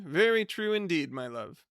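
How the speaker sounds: lightly voiced hearty husband; Mr Budden's voice. Husband announcing his plan to his wife, lightly voiced.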